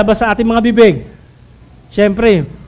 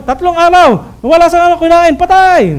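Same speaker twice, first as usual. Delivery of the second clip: mock headline shout; 5 semitones higher, 3 dB louder than usual.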